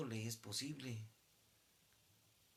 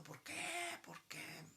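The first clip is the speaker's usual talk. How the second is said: crying why; much slower than usual. Retold or imitated. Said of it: "Todos llorando".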